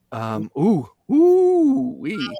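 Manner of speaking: high, shaky-free ooh as feelings rise; emotional ooh. Real, not acted. Funeral celebrant catching herself getting emotional, high ooh. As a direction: let out a high ooh to steady yourself. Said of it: "I get emotional".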